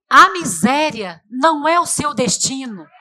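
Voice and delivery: slow, ringing proclamation to the church; preaching shout. Acted. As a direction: declare it like a battle cry, slowly. (proclamando em voz alta, devagar)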